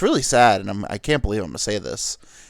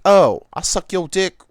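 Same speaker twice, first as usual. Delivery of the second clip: loud, higher, drawn-out come-on; put-on streetwalker voice, pitched up; prostitute voice; 7 semitones higher, 9 dB louder, slower than usual. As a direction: call out a slow street solicitation. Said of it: "That's just the prostitute voice".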